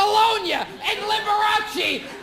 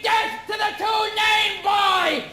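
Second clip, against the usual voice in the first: high, drawn-out mock war cry; slow hammed-up yell of a death sentence; mock scream; 4 semitones higher, slower than usual. Attacker charging the two-named intruder, high mock scream.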